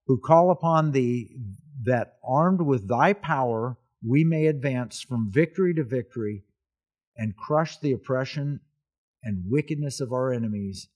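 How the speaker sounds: measured, solemn reading of a prayer; formal prayer reading. Acted. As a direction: read it out formally, phrase by phrase. Reads out Patton's prayer.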